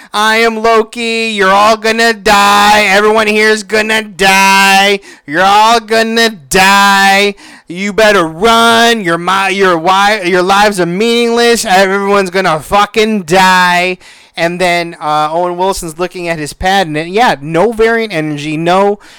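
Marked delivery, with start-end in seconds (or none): 0.1-13.9 high yell, with "die" drawn out. Retelling a scene where a character yells to a town: imitating Loki yelling. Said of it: "he's just yelling through the, to the town".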